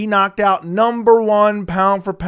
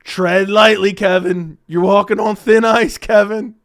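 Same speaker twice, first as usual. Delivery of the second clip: mock warning; 5 dB louder, slower than usual.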